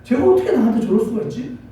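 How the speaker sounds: imitated parent's hurt indignation; mildly indignant mock grumbling; resentful complaint. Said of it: "원망이 많았거든요".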